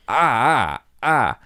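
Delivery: repeated mock cries of pain; retold pain cries. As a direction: act out short "ah" yelps. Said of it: "I was just like".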